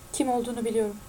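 slow repeat. A narrator's reading. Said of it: "diye tekrar etti Albi yavaşça".

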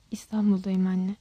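low, hushed admission; whispered confession. A narrator's reading. Daughter admits to her mother where she is, whispering. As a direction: confess it softly, pitch dropped. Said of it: "fısıltıyla itiraf etti".

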